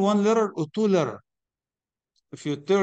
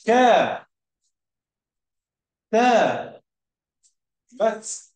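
syllable by syllable; 3 semitones higher, 5 dB louder, much slower than usual. Shown as a demonstration. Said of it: "كتبت".

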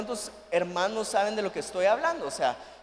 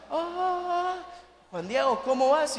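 heavenly voice; 5 semitones higher, slower than usual. Retold or imitated. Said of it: "del cielo se escuchaba".

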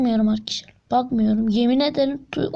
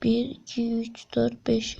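hushed counting; 6 dB quieter, slower than usual. Real, not acted.

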